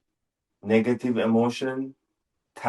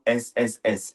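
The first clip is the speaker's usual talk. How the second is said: long hissing s sound; drawn-out s like a snake. Shown as a demonstration. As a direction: hiss it out like a snake. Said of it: "It sounds like a snake".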